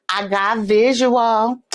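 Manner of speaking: slow, stretched-out announcement; playful drawl. Pretend. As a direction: draw out "visual" playfully. Playfully announcing she has a visual.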